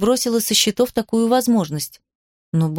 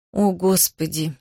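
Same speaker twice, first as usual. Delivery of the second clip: groaning; 3 semitones lower, slower than usual. A narrator's reading. Kitty despairing at her sister's news, slow groan. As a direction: moan it out wearily. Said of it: "простонала она".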